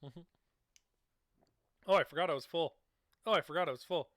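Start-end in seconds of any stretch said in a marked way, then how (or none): 1.9-4.1 put-on forgetful baby voice. Voicing forgetful baby, repeated.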